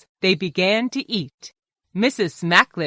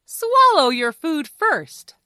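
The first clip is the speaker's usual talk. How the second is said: high, slow, deliberate telling; firm instruction; 8 semitones higher, 4 dB louder than usual. Acted. Fox teaches Mister Smacklips table manners, firm instruction. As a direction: spell out the rule patiently but firmly.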